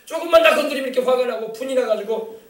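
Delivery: high-pitched, urgent pleading; demonstrated repentant prayer. Shown as a demonstration. Preacher showing men how to repent of anger, pleading mock prayer. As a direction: act out confessing a bad temper to God. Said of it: "막 이래야 돼요".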